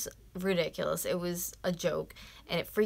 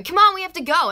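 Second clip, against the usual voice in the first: much higher, louder whiny nag; mocking the wife; 11 semitones higher, 13 dB louder than usual. The wife yelling from the car, a mocking whiny nag. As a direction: mimic her as shrill and impatient. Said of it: "his stupid freaking bitch of a wife is in the car going".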